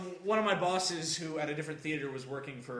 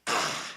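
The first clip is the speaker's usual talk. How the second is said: loud sigh. Retold or imitated. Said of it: "hear me go ... very loudly".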